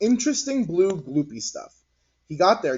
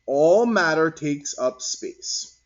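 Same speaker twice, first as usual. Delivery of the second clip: slow, louder teacherly statement; 5 dB louder, slower than usual. Acted. Mister Whiskers teaching the children, slow and firm. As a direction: lay it down slowly for the class.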